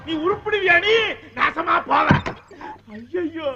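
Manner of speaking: high, slow wailing curses; wailing lament. Acted. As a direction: wail and curse like a mourning mother, drawn out. Mother wails over daughter's fate. (ஒப்பாரி போல உயர்ந்த குரலில் மெதுவாக அழுது புலம்பல்)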